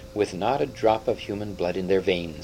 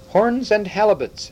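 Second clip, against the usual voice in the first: high, louder indignant outburst; exclamation; 11 semitones higher, 5 dB louder than usual. A narrator's reading. Third voice protests at talk of killing Caspian, a high exclamation. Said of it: "exclaimed the third voice".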